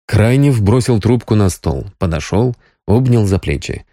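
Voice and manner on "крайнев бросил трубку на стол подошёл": plain reading voice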